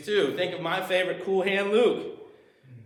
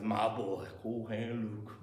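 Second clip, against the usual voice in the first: lightly voiced Dragline; 7 semitones lower, 10 dB quieter than usual. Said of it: "Dragline says".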